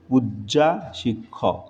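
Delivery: পূজ্যা drawn out with a long final aa; wrong form demo. Shown as a demonstration. Teacher reads out the faulty phrase for correction, পূজ্যা ending in aa. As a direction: say পূজ্যা ending in an open, stretched aa. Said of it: "এটা ভুল".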